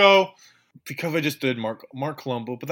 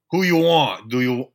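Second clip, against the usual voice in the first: badly faked Boston accent; Dave Gettleman; 5 dB louder than usual. Co-host fumbles the GM's reply, badly faked Boston accent. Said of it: "Is that your Dave Gettleman impersonation?".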